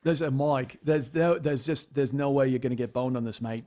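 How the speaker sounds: put-on Australian accent; Dave impression. Friend mimicking Dave to tease his co-host, Australian accent. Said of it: "you're totally nailing this accent".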